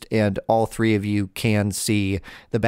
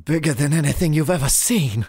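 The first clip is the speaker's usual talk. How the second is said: higher, showy circus-barker voice; boastful ringmaster; 5 semitones higher than usual. Acted. Ringmaster describing his newest act to a stranger, boastful. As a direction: sell it like a ringmaster.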